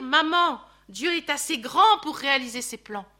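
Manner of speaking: said out firmly and loud, leaning on grand; firmly urging his mother; firm hypothetical plea. Pretend. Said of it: "S'il avait eu pu dire".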